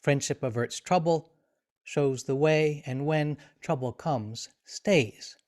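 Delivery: measured reading, letting the pauses fall naturally; unhurried recital with space between phrases; unpunctuated verse reading. Shown as a demonstration. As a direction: read it aloud phrase by phrase. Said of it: "It's a different kind of reading".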